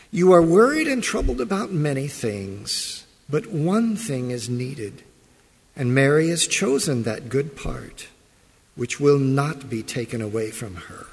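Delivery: measured Bible reading voice; formal scripture reading. Acted. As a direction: read the passage steadily to the congregation.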